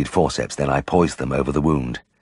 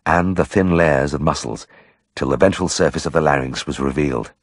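plain reading voice

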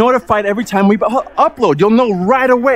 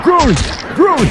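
higher, punchy battle call; calling out attacks; 3 semitones higher than usual. Pretend. Player calls groin shots in game, punchy attack call. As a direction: bark each hit as it lands.

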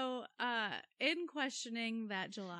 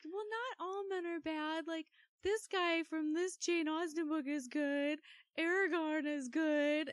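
imitating coworker; 8 semitones higher than usual. Coworker quoted listing good men.

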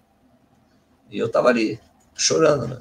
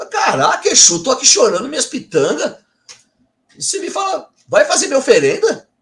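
much higher, outraged disbelief with a laugh; indignant disbelief; 12 semitones higher, 3 dB louder than usual. Real, not acted. Medium protesting to his spirit guide, high and indignant. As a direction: squeal in offended surprise. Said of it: "eu fiquei revoltado".

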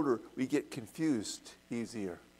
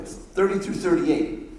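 verses repeated louder and clearer; 2 semitones higher, 8 dB louder than usual. Shown as a demonstration. Teacher repeating the verse numbers louder to the class. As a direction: call it out again for the class. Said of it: "I can't make them smaller for you".

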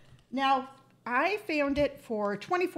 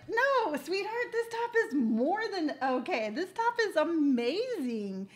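sassy retort; 5 semitones higher than usual. Retold or imitated. Retold retort defending her top.

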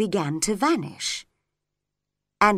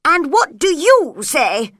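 crowd crying out; 5 semitones higher, 7 dB louder than usual. A narrator's reading. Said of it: "they cried".

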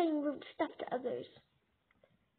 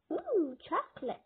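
put-on girly voice; 5 semitones higher, 5 dB louder than usual. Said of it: "you sound like you are a girl".

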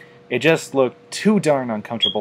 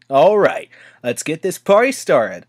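louder, higher, eager battle cry; whooping; 6 semitones higher, 6 dB louder than usual. A narrator's reading. Rainbow Dash diving into the fight, whooping with excitement. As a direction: whoop it out as she dives in. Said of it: "she whooped".

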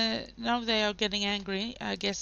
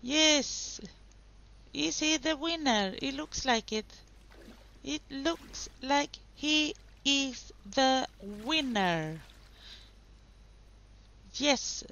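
excited race commentary; 3 semitones higher than usual. Real, not acted. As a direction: call the race like a thrilled commentator. Live excited commentary on sim race.

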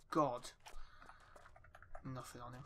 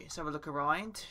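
playful mock Cockney with a lilt up at the end; a touch of pretend Cockney; Cockney accent. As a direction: put on a light Cockney accent. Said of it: "we have to do a Cockney accent".

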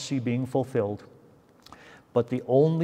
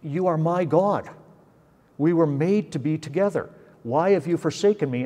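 relational plea to the Father; 3 semitones higher than usual. Acted. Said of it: "He still claims relationally".

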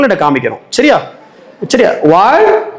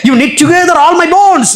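slow scripture reading; 7 semitones higher, much slower than usual. Shown as a demonstration. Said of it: "slow scripture quote".

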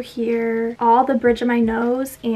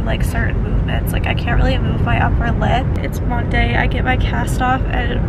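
stuffy nose, packing still in; nose packed with gauze; 3 dB louder than usual. Real, not acted. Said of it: "all the packing in my nose".

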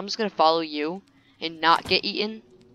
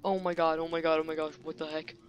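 softer, breathless dread; hushed dread; 7 dB quieter, faster than usual. Real, not acted. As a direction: hush it, scared. Creeping dread after scare.

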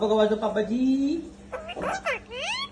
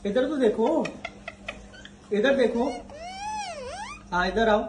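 calling out; 7 semitones higher than usual. Real, not acted. Calling the child over.

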